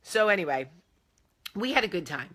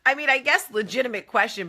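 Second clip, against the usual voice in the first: laughing; 9 semitones higher, 9 dB louder than usual. Real, not acted. Laughing at husband's question.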